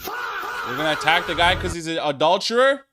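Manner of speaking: incredulous laughing yell; laughing shout. Real, not acted.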